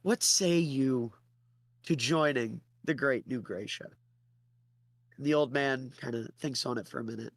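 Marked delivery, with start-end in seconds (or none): 0.0-3.9 pompous pitch. Acted. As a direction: boom out the offer then draw it out. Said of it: "Theodore starts laughing".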